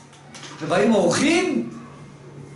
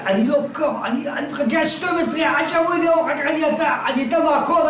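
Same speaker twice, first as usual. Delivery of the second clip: stubborn refusal; 5 semitones higher than usual. Acted. Man insists on waiting.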